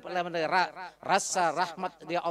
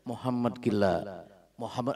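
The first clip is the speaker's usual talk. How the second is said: blind beggar's taunt; 8 semitones lower, slower than usual. Acted. Blind beggar insulting the Prophet.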